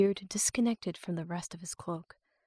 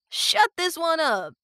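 loud, higher barked order from a thug; gruff captor; 10 semitones higher, 6 dB louder, slower than usual. A narrator's reading. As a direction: snap the order at your partner. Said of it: "the gruff voice".

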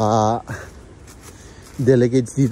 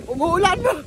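excited shouting. Real, not acted. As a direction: call out over the rain. Caught in sudden rain.

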